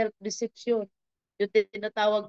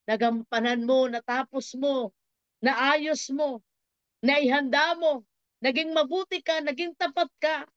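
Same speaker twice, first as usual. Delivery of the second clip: approving praise, climbing higher phrase by phrase; returning Lord's commendation; 4 semitones higher than usual. Acted. Returning Lord commends the faithful caretaker, rising praise. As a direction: build the commendation item by item. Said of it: "sasabihin niya".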